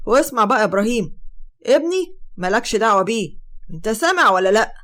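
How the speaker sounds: loud scolding uncle telling her to keep out; loud, rough scolding voice; angry uncle. Acted. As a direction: bark it at her, loud and fed up. Uncle confronts his niece.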